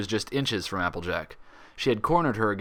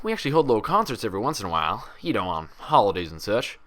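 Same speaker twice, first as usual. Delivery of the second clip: lightly voiced country mare, friendly; Applejack voice. Doctor Applejack chatting to Twilight, lightly voiced country mare.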